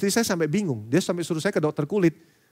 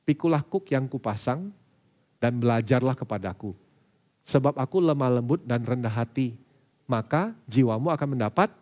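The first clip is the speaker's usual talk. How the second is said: gentle scripture quote; 2 semitones lower than usual. Acted. Reading Jesus's words.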